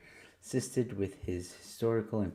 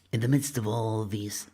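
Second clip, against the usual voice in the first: movie trailer voice. Pretend. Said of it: "Movie voice time".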